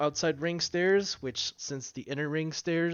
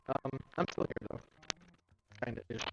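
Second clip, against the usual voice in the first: breaking up over a bad line; crackly connection; 6 dB quieter, faster than usual. Real, not acted. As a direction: crackly voice chat audio. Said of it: "You are super crackly".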